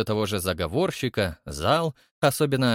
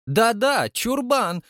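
very high, raised angry voice; angry cry; 12 semitones higher, 4 dB louder, much slower than usual. A narrator's reading. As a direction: hurl the insult in anger. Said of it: "выкрикнул в гневе председатель". (гневный выкрик, очень высоко)

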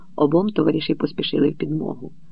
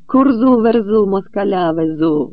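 loud mocking chant of an old Cossack; глузливий вигук; 4 semitones higher, 5 dB louder, slower than usual. A narrator's reading. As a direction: call it out to jeer the speaker. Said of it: "гукав якийсь підстаркуватий козак". (глузливо гукає до промовця)

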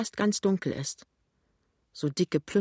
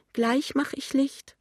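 put-on high, slow, wailing old woman; plaintive; 10 semitones higher, slower than usual. A narrator's reading. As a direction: draw it out in a high lament. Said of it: "sagt die klagende Stimme". (klagende, hohe, langsame Stimme)

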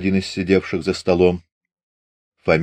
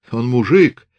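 mocking high, lisping clown voice; sugary lisping voice; 4 semitones higher, 4 dB louder than usual. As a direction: play the fool with a cloying lisp. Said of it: "юродствуя приторно тонким голосом, прошепелявил".

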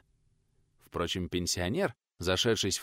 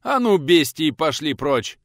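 angry shout; 5 semitones higher, 8 dB louder, slower than usual. Acted. Chasing the rowdies from the house.

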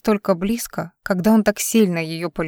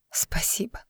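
breathy whisper of Спасибо, much softer; a tearful, whispered Спасибо; whispered thanks; 11 dB quieter, slower than usual. A narrator's reading. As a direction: barely voice Спасибо through tears.

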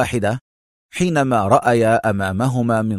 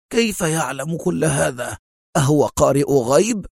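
higher-pitched amazed questioning; astonished Kal; 5 semitones higher than usual. A narrator's reading. Kal marvels at the tracker's knowledge, astonished. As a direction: ask in wonder, pitch lifted. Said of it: "هتف كال في دهشة".

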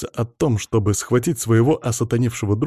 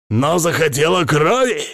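higher-pitched comic hamster outrage; angry hamster cry; 6 semitones higher, 3 dB louder than usual. A narrator's reading. Hamster accuses the girl of wanting blood, angrily. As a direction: fling the accusation out in a raised pitch. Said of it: "грозный и сердитый, но смешной и звонкий хомячий вопль".

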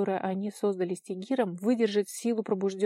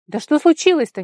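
bewildered interruption; 7 semitones higher, 14 dB louder than usual. A narrator's reading. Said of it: "непонимающе перебил её Толя".

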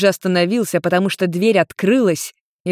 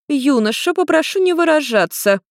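strict reprimand, higher pitch; stern rebuke; 9 semitones higher than usual. A narrator's reading. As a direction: cut him off like a strict elder. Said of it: "строго осадила его Нарико".

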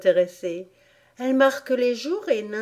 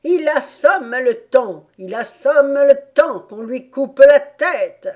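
higher, much louder outraged cry; shrieking at full voice; 5 semitones higher, 9 dB louder than usual. A narrator's reading. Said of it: "se mit à crier à tue-tête". (crier à tue-tête)

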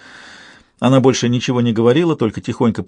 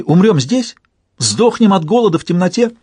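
higher, louder frightened cry; panicked squeal; 8 semitones higher, 3 dB louder than usual. A narrator's reading. Alaria panics at the thought of dying, higher and louder. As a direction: panic rising in her voice. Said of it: "взвизгнула Алария".

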